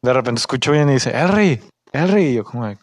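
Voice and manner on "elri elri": high-pitched imitation of a holler; mock calling out. Coworker shouting the nickname to get attention, mock calling out. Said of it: "te estaba gritando Elri".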